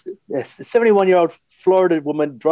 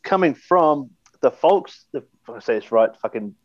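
put-on Aussie accent; 4 semitones lower than usual. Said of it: "my Aussie accent".

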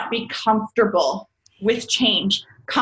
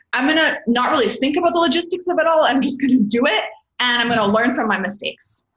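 a hint of impulsive Aries, higher and quick; mildly fiery, headlong voice; lightly voiced Aries; 4 semitones higher than usual. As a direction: lightly act someone eager to rush in. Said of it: "Aries is a lot of fire".

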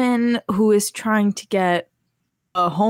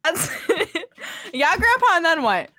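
put-on eager kid voice; 7 semitones higher than usual. Child egging on grandpa.

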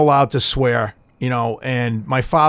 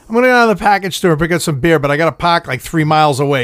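mock customer; much faster than usual. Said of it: "That's like".

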